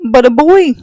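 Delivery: punchy whispered reveal; dramatic stage whisper. Acted. Revealing a boy inside the spacecraft, stage whisper. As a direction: land the twist in a loud whisper.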